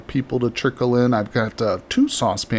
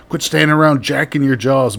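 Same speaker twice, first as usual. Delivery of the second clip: louder, higher Quit standing around jacking your jaws, like a coach; gruff coach bark; 4 semitones higher, 5 dB louder than usual. Retold or imitated. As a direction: yell it like an old football coach. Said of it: "high school football coach used to say".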